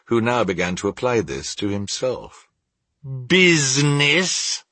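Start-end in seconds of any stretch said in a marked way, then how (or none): 3.3-4.6 high, drawn-out ghostly cry; anguished cry. A narrator's reading. The ghost throws Scrooge's word back, crying out. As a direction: wail the word in indignant disbelief. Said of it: "cried the ghost".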